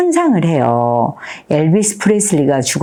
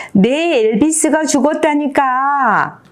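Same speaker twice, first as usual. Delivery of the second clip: high, slow wail of insistence; drawn-out mock scream, not full volume; acted yell; 9 semitones higher, slower than usual. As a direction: cry it out like a child nobody understands. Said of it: "소리를 지르는 거죠".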